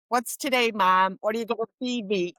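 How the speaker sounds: a hint of a pup begging for dinner, quickening at the end; voicing her eager dog. Dog asking Mom what's for dinner, lightly voiced eager dog. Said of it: "she'd be sitting there going".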